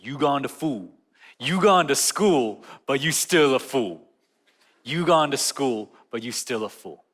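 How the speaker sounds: lightly voiced slow Southern friend, teasing; a hint of a Southern drawl, amused. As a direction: drawl it out like a Southern buddy ribbing you. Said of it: "he says it in his southern drawl".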